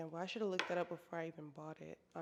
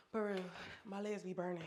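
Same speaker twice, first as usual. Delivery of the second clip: winded from the stairs; puffing up the stairs; climbing stairs; 3 dB louder, faster than usual. Real, not acted. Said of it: "I'm out of breath".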